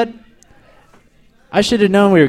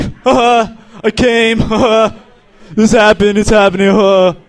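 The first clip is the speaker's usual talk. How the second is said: higher-pitched, hammed-up gasping outburst; mock climax; 5 semitones higher, 3 dB louder than usual. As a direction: act out an overexcited climax. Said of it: "I was like".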